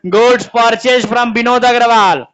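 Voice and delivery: 'goods purchase from विनोद अग्रवाल' read slowly, word by word; slow dictation. Shown as a demonstration. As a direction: dictate it so the class can copy. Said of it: "अगला question".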